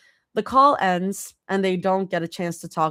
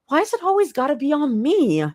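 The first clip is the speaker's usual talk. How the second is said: groaning; 10 semitones higher, 3 dB louder than usual. A narrator's reading. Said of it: "Rumi asks with a groan".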